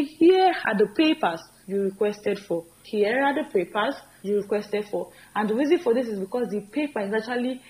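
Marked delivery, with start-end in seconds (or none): 0.0-5.1 slow, deliberate model line; slow corrected demo; slow corrected form. Shown as a demonstration. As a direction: say the fix slowly for the class. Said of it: "So we say".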